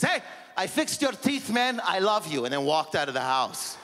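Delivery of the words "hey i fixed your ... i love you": higher, gruff-tender dad voice; hint of an awkward father; mock dad. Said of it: "he goes".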